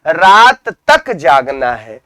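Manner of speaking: slow, "तक" set apart and stressed. Shown as a demonstration. Teacher giving an example of emphasis, stress on "तक". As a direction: lean on "तक", then let the phrase fall. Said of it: "शब्दों पर जब बलाघात किया जाए".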